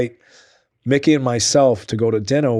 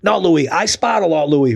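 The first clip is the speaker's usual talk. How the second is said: mimicking Mickey; 6 semitones higher, slower than usual. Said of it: "He goes".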